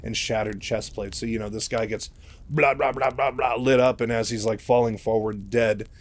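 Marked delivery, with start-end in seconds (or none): 2.5-4.0 rapid-fire blah sounds for bullets; imitated gunfire. Host mimics a marine getting shot up, rapid mock gunfire. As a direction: mimic a burst of spikes hitting.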